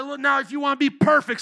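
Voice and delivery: Jesus' demand, preached loud; loud preaching Jesus voice. Retold or imitated. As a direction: thunder it out as Jesus.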